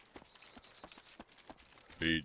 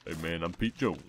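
low relaxed put-on greeting; easygoing character hello; lower voice variant. Shown as a demonstration. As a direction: drop back down into the voice. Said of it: "so easy to just go down to this voice".

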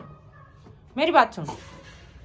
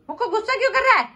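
laughing; 7 semitones higher, faster than usual. Real, not acted. Laughing at the angry pet.

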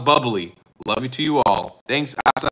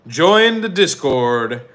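slow emphatic plea; 3 dB louder, much slower than usual. Acted.

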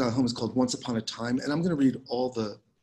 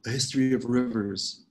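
measured, unhurried poetry reading with lingering pauses; poem reading. Acted. Poet reading her work to a Zoom audience, measured poem reading. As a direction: let each image settle before the next. Reads the five poems.

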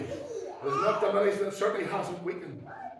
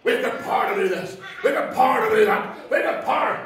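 louder, hammed-up bragging; mock loud boast; 3 dB louder than usual. Parodying a Pentecostal preacher at a crowd, mock-loud bragging. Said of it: "sick, sore, and tired of hearing Pentecostal preaching like that".

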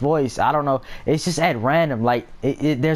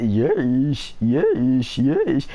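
imitating friend's yes; much slower than usual. Streamer imitating a gaming friend's odd repeated yes. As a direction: parrot his odd yes, ending way up. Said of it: "he kept saying like that".

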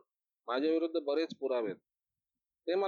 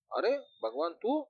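high, startled greeting; old friend suddenly recognised, surprised; 9 semitones higher than usual. A narrator's reading. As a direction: blurt it out in disbelief. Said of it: "विजून आश्चर्याने विचारलं".

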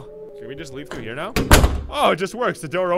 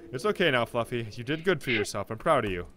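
lower, gentle comforting voice; reassuring; 4 semitones lower than usual. Acted. David telling Fluffy he did good, reassuring. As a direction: soothe a frightened child.

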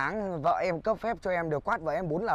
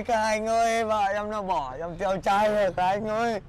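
loud, lamenting wail to the guys; hammed-up lament to his friends; mock wailing; 5 dB louder than usual. Husband telling friends his wife left him, hammed-up loud wail.

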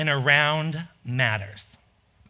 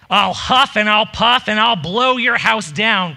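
somewhat louder wolf threat; wolf crying out; 2 semitones higher, 5 dB louder than usual. Acted. Wolf threatening the stick house, raised voice. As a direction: call the threat out with force. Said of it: "cried the wolf".

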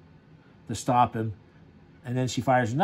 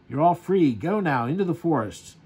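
louder mock shout to the crowd; retold yell; 4 semitones higher, 4 dB louder than usual. Hero yelling at the women and children, mock shout. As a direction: call it out like a freed hero, half-played. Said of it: "he yells at the".

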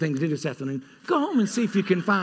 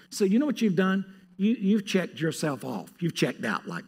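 usual speaking voice

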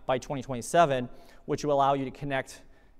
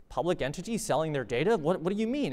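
higher-pitched incredulous questioning, climbing at the end; mock freaking out; 4 semitones higher than usual. Imitating people reacting to a city selling data, mock freaking out. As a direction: imitate people baffled and alarmed. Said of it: "people freaking out and going".

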